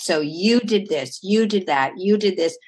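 you hit firmly at the start of each short phrase; accusing you tense, you stressed. Shown as a demonstration. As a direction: lean on you in you did this, you did that. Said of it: "writing it in the you tense".

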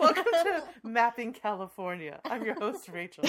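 smooth radio host voice; velvety announcer tone; soothing velvety voice. Shown as a demonstration. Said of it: "this is my soothing, velvety voice".

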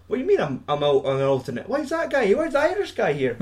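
high, outraged whine; indignant whine. Retold or imitated. Drummer outraged at the Irish guy replacing him, high whine. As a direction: squeal the complaint like a spoiled kid.

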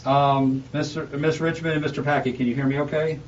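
speaking through a face mask; muffled, masked voice. Real, not acted. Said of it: "I apologize for the muffled sound. I'm, I'm wearing a mask".

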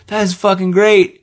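slow, high gush of delight; mock delight. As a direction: savour it like a thrilled fan. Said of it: "You're just like".

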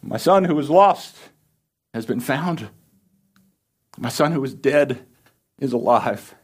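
high, loud calling out to the servants; joyful yell. Acted. The father calling his servants to start a feast, shouting with joy. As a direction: shout it out to the whole house in joy. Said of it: "he yells out".

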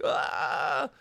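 high, drawn-out imitation scream; mock scream. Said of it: "lets out this scream where he's like".

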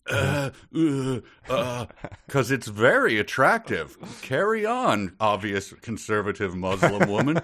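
high, nervous backpedal; flustered clerk. Acted. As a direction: stammer and wave her through.

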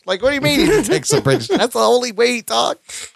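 high-pitched, comically exasperated objection; incredulous protest. Retold or imitated. Viewer scoffing at the detective's accent remark, incredulous. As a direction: argue it as if it's absurdly obvious.

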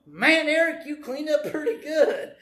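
mock-sarcastic praise among friends; fun sarcastic. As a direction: tease him lightly with a laugh. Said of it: "fun, sarcastic way".

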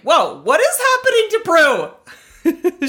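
high, slow, stretched-out whoa; shocked disbelief. Retold or imitated. Amazed the judge said that, high slow shocked whoa. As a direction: gasp it out in disbelief. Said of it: "And I was like".

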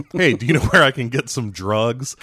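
mock undercover cop asking casually; lightly acted awkward ask; awkward question. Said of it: "Which leads to awkward conversations".

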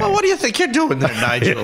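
high, hammed-up Irish voice scolding; mock Irish telling-off with a laugh at the end; Irish accent. Teasing the semen story man, hammed-up Irish accent. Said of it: "I wish I could do an Irish accent".

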